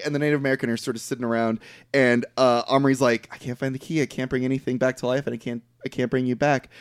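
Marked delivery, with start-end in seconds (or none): 3.3-4.0 soft, understated mock despair; a touch of hopeless sorrow, acted; retold sadness. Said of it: "they're all very sad". 4.0-6.7 soft, subdued mock despair; a touch of acted sorrow; retold sadness. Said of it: "they're all very sad".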